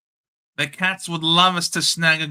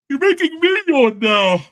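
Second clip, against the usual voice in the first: high, louder, sing-song mock of his mate's whinge; mocking mimic; 9 semitones higher, 5 dB louder than usual. Teasing his mate who is bored by Geelong, high mocking mimic. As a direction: parrot the line back to tease him. Mocks the friend's line back.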